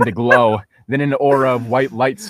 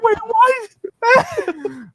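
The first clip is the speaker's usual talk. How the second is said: surprised. Retold or imitated. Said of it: "I was like".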